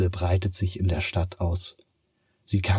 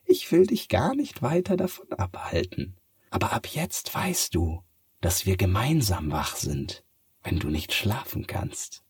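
a gentle farewell promise; cat voice. Acted. Cat says goodbye. (hohe Katzenstimme, sanft auslaufend)

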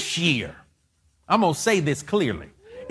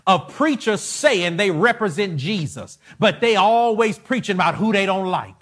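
angry rant; 3 semitones higher than usual. Real, not acted. Preacher condemning hypocritical preachers, rising indignation. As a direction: scold the preachers, building in anger. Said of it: "this is Michael talking now".

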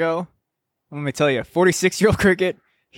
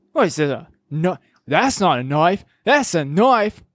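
Crocodile Dundee impression. Host quoting Paul Hogan's knife line in a mild Australian accent. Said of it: "That was a pretty good one".

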